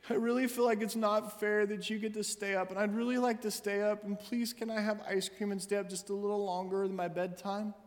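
a hint of a child, softening to a gentle plea; polite child request. Lightly voiced daughter making a polite request, trailing quiet. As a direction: ask sweetly like a well-coached kid. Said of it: "that was a great wise appeal".

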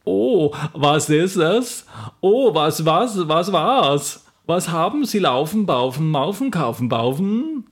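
slow, puzzled mock-German gibberish. Michael the German worker finds Knud in the hole, mock German. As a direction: play a confused German worker, drawn out. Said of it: "en fabriksmedarbejder ... der hed Michael".

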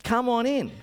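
high-pitched rock singer impression. Rock singer inviting fan in, high imitated voice. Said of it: "if you know how the singer sings".

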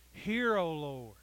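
anguished cry. Retold or imitated. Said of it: "cry out in our prayer, in our anguish".

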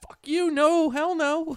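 a high, loud mock outburst with a laugh; imitating Troy's outburst. Imitating Troy refusing to give up the meatball, high and loud. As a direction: yell it like a greedy friend grabbing food.

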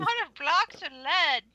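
hammed-up grandpa; old man voice. Old man bit continues.

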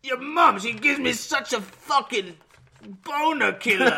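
high, loud, hammed-up begging; mock frustrated lover. Singer blaming her mum, mock frustrated pleading. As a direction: whine loudly like a thwarted lover, half laughing. Mimicking the singer badgering his bride.

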